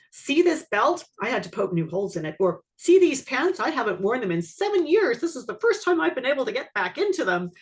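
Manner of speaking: beam with pride over new fit; proud excitement. Retold or imitated. Proud client showing weight loss.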